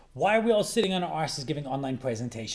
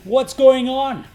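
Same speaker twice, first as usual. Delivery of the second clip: exasperated rant; 3 semitones higher, 3 dB louder than usual. Retold or imitated. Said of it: "all I thought was".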